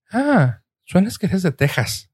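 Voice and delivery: high, lightly mocking quote; imitating tourist staff. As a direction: mimic the people in Arizona. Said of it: "que me dijeron".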